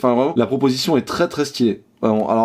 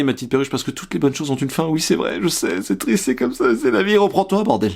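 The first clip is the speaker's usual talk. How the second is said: mock consoling; 4 semitones higher than usual. Mock consoling a pet, high voice.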